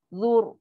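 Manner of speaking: "zur" with arched tongue and heavy r; thick ra. Shown as a demonstration. Teacher shows the arched-tongue sound, thick ra. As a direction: round the ending of "zur" heavily. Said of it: "Lidah kita melengkung".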